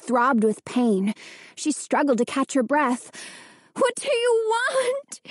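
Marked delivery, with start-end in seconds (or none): 3.7-5.2 frightened cry. A narrator's reading. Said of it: "she managed to cry".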